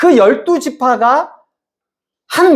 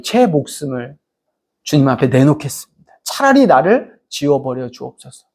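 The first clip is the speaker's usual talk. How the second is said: lowered, restrained praying voice; earnest plea; 4 semitones lower than usual. Acted. Moses offering his life to God for Israel, in an acted earnest plea. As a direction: plead gravely, sinking lower toward the end. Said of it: "목숨과 생명을 건 기도를".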